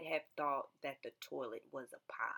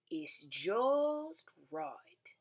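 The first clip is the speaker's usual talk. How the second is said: hushed; 9 semitones higher, much slower than usual. Acted. Storybook visitor whispering that this one is just right. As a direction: breathe it like a secret.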